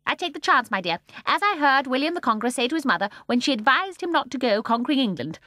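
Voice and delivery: put-on high, loud, gleeful old woman; gleeful old lady. A narrator's reading. Mrs Corrie answering Michael, high gleeful old woman. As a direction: chirp it with glee.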